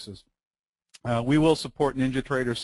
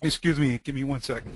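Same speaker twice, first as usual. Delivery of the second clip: coughing up water. Real, not acted. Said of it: "Some water went down the wrong pipe".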